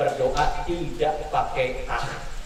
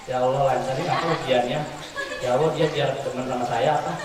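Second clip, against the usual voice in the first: fast, lower mock prayer; careless quick prayer; 5 semitones lower, faster than usual. Preacher mocking a slouching student praying. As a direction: rattle it off half-hearted. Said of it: "Kalau gini berdoa pasti gini".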